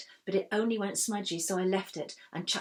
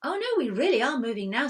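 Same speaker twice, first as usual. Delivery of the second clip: excited; 6 semitones higher, 8 dB louder than usual. A narrator's reading. Stevie excited.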